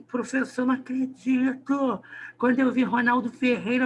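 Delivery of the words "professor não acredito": student's dismay. Retold or imitated. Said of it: "quando eu cheguei assim".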